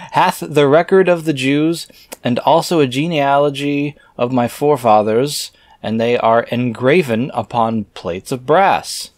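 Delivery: scripture reading. Acted. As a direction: intone the archaic words like a preacher. Reads scripture aloud.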